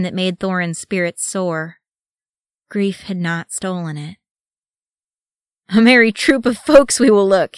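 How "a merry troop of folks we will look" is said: higher, much louder merry voice; booming dwarf amusement; chuckling. A narrator's reading. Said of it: "he chuckled".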